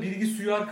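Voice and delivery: "Bilgi suyar" said in place of bilgisayar; mispronounced word. Retold or imitated. Friend mimics the Adana way of saying computer, lightly. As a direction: say "Bilgi suyar" like a local speaker getting the word wrong. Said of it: "O da".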